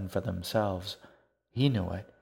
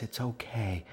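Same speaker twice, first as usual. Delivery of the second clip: soothing; 3 semitones higher, 4 dB quieter than usual. Acted. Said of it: "to calm her down".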